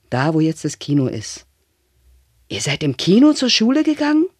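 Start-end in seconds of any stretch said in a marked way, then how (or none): 2.5-4.3 put-on a child who can't believe it; child marvels at grandfather's schooldays; amazed child.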